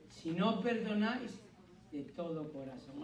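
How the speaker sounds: slow "si no perdonáis", dropping soft and intent on "de todo corazón"; stress on de todo corazón. Shown as a demonstration. Pastor correcting a misreading for the church, stressing de todo corazón. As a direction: lean on "de todo corazón", softly and slowly. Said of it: "solo de palabra, no".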